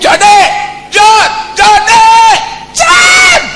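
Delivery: high, loud repeated hollers; shouted calls. Shown as a demonstration. Calling someone far away in earnest, shouting. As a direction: yell the name harder until it carries. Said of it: "Anda harus teriak".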